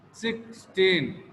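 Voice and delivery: sixteen with both syllables stressed, drawn out; two stress points. Shown as a demonstration. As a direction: give six and teen each a stress in sixteen. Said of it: "two stress points".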